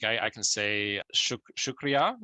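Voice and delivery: unsure learner's "shukriya"; Hindi thank you. Shown as a demonstration. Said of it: "Is that right?".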